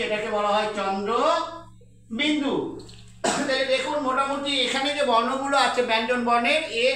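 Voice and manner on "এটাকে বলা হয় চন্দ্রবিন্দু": slow dictation. Shown as a demonstration. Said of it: "আমি লিখে দিচ্ছি".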